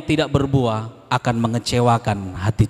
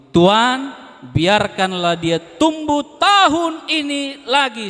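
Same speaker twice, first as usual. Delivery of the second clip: a touch of a pleading gardener; 11 semitones higher, 4 dB louder, slower than usual. Acted. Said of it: "Jawab orang itu".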